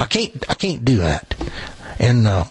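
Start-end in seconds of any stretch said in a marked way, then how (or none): 0.0-1.3 CAN'T drawled as "cain't" in Tennessee twang; Tennessee hillbilly accent. Retold or imitated. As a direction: say it like a Tennessee country boy, "cain't". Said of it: "I said things like".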